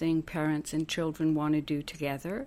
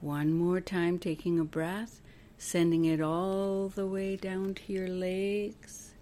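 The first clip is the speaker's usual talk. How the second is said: guided meditation; 5 dB quieter than usual. Acted. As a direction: guide them gently through each breath, letting phrase endings soften. Leads breathing visualization.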